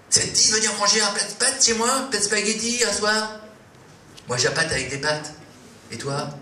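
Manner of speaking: nervous excited come-on; eager invitation. Acted. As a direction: blurt the invite a bit too keen.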